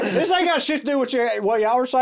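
high, fast hammed-up yokel bragging; mock redneck fan. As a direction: lampoon the proud Mustang owner, high and fast. Mocking the Mustang fan.

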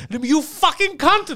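drawn-out, high-pitched angry scammer; slow, hammed-up furious insult; mock yelling. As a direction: imitate a scammer cursing in outrage. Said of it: "They're yelling".

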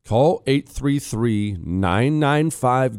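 slow, deliberate phone number; slow number read. Acted. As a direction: spell out the number slowly.

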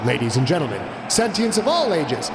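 long stretched high rumble call; booming fighting game announcer. A narrator's reading. Announcer calls the crowd.

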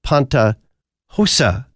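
「Panta hosa」をギリシャ語らしく区切って; ギリシャ語の「Panta hosa」をはっきり発音; Greek words panta hosa. Shown as a demonstration. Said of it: "in Greek".

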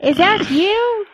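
Elmo voice. Acted. Voicing Elmo puppet.

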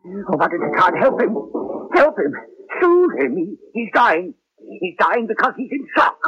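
high, frantic pleading; panicked pleading. Acted. Pleads to help a dying patient.

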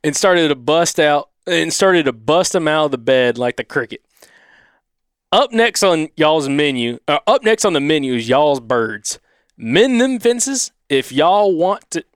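slow country Southern drawl; drawn-out Southern accent; Southern twang. Acted. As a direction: read it out in an Alabama twang. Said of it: "trying to do the accent".

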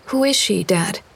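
put-on a curious girl asking Dad; young girl's voice. Girl asks her father.

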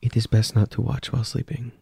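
even, measured character line; calm hostess voice. Acted. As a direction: speak as the polite, unblinking hostess. GM speaks as the hostess.

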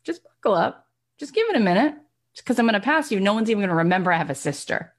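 a hint of a cocky champion taunting; lightly voiced Serena, playful boast; Serena taunting sister. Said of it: "Serena looking at her sister and saying".

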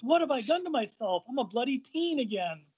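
high-pitched, wailing complaint; lightly acted outburst of dismay; mock dismay. Devlin finds himself a teen again, mock dismay. Devlin horrified at being made younger.

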